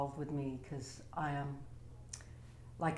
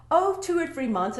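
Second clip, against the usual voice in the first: much higher and louder, breezy doctor voice; doctors' prognosis; 11 semitones higher, 10 dB louder than usual. Retold or imitated. Doctors giving her months to live, breezy high voice. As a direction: toss it off like a casual doctor. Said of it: "They're like".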